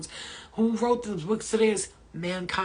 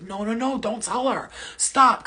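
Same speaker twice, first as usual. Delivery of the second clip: louder, sharp order to stop; urgent interruption; 4 semitones higher, 8 dB louder, slower than usual. Retold or imitated. Second man silencing his partner in the portal, urgent interruption. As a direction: cut him off, hitting the last word hard.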